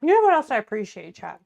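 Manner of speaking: talking through a mouthful of food; mouth full. Real, not acted. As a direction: speak around a bite, mouth full. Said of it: "I'm talking with my mouth full".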